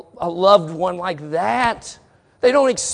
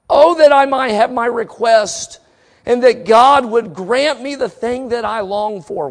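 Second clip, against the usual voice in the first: raised, impassioned preacher's reading; forceful scripture reading; 4 semitones higher, 7 dB louder than usual. Acted. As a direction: read the verse out as a heartfelt plea.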